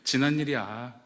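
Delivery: slow, gentle reassurance; calm the wife tenderly; soothing. Retold or imitated. Husband comforting his crying wife, gentle. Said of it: "제 아내를 진정시켰어요".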